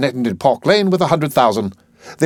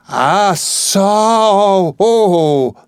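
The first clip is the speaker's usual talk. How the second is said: astonished gasp; 10 semitones higher, 4 dB louder, much slower than usual. Acted. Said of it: "Picking up a half a sovereign".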